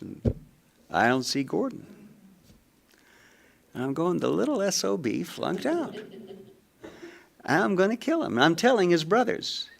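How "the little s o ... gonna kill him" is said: mock fury. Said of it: "Ooh, he's mad".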